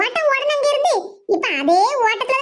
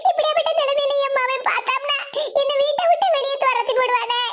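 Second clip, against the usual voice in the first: acted weepy despair; hammed-up anxious wail; tearful lament. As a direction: bewail your fate as if crying. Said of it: "நீங்க எதை இப்படி அழுதுகிட்டு இருக்கிய?".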